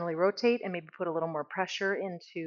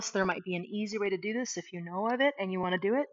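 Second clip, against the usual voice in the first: ordinary talk, nothing marked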